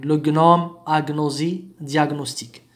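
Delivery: hard g then n in غنوم, أغنوزي, دياغنوستيك; separate g-n. Shown as a demonstration. Teacher recaps the exceptions, g and n pronounced apart. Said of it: "ننطق جي وإن سيباريمون".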